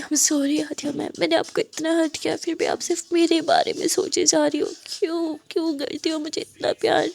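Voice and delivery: rising into sobbing, voice breaking on the pain; crying confession of love; tearful plea. Acted. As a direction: beg forgiveness through tears. Muskan's tearful confession to Aadiya.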